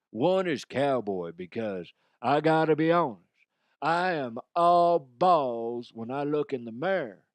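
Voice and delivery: a hint of a cowboy twang. Cowboy character boasting about himself, in a light cowboy voice.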